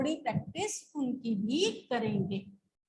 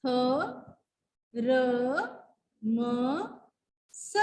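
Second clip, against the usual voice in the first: letter by letter; 2 semitones lower than usual. Shown as a demonstration. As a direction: sound out ख ट म ल with pauses. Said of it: "थर्मस". (एक एक अक्षर रुककर)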